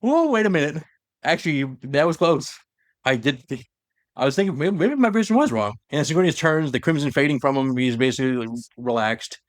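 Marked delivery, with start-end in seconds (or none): 0.0-5.7 a prisoner's near-hysterical relief, voiced high; relieved laughing realization. Prisoner spared from execution, relieved giddy high voice. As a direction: pitch jumps much higher with giddy relief. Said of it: "laughing in relief".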